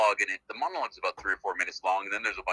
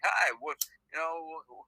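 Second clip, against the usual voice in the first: chatty stranger; 7 semitones higher, 6 dB louder than usual. Retold or imitated. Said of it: "It's just like".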